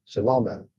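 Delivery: Salamat said sa-LA-mat; accent the "la" in Salamat; stress on LA. Shown as a demonstration. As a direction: Salamat with the middle syllable stressed. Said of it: "the la would have the accent".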